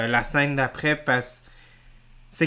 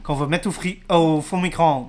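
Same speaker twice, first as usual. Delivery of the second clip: far from mic; 4 dB louder than usual. Real, not acted. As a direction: project it from a distance. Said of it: "je m'éloigne du micro".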